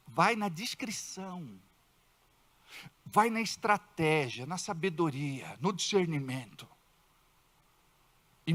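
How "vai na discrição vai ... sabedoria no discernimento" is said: soft, slow, discreet; hushed advice. Shown as a demonstration. Pastor advising discretion to the congregation, hushed. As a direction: lower the voice to show discretion. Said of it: "Fala baixinho".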